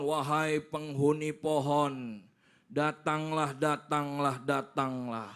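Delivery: lightly voiced shaman's slow incantation; summoning spirits. Shaman calls the tree's dweller to come, slow mock incantation. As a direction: draw out a mock call to the spirit.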